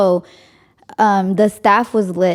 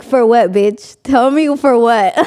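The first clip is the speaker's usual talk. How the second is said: louder, sharp sassy demand; sassy challenge; 3 semitones higher, 4 dB louder than usual. Retold or imitated. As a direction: call her bluff with attitude. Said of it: "I'm like".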